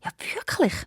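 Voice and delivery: put-on high, eager question from the old stork; mildly excited vizier. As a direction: perk up, thrilled by the news. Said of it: "ganz aufgeregt".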